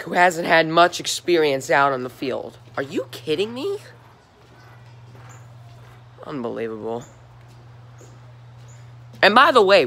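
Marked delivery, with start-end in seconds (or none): 2.8-7.0 deflated. Real, not acted. Deflated repeat of the rant line.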